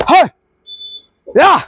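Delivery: short, punchy battle yell; two sharp bursts of energy, shouted with gusto; spirited shout. Shown as a demonstration. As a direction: demonstrate an energetic exertion shout. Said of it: "जोश आल्यासारखं ओरडा".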